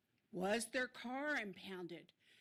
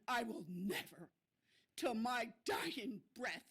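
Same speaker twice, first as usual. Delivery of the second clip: ordinary talk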